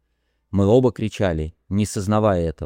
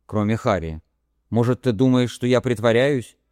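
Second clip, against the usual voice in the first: put-on higher young woman's voice, anxious and pleading; a lightly voiced woman begging to be believed; frightened Harey; 3 semitones higher than usual.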